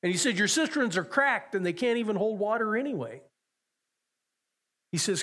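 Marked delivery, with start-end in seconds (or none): 0.0-3.2 raised, higher pleading call; preacher voicing Jesus crying out to the thirsty. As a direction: cry it out as an urgent invitation. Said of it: "he cries out and he says".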